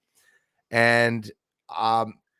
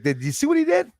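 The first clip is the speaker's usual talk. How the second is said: asking for agreement; 14 semitones higher, 3 dB louder than usual. Shown as a demonstration. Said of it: "like, when you say".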